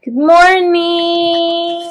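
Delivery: slow, drawn-out good morning; sing-song greeting. Real, not acted. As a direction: stretch it out cheerfully.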